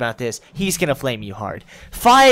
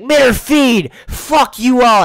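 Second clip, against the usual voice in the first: much higher, louder mock yell at the lobby; rude shout; 10 semitones higher, 9 dB louder, slower than usual. Toxic player joins the lobby and yells, mock rude shout. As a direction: yell it like a toxic kid joining. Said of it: "someone joined your lobby and is like".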